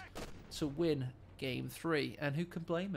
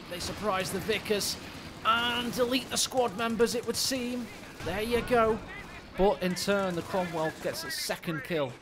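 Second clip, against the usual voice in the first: animated match commentary, rising with the action; excited caster voice; live play-by-play; 4 semitones higher, 4 dB louder than usual. Acted. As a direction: call the firefight as it unfolds.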